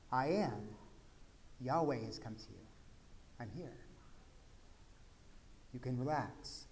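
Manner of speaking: soft, hushed divine comfort; calm them gently; quiet tender voice of Jesus; soft reassurance. Retold or imitated. Jesus reassures frightened disciples.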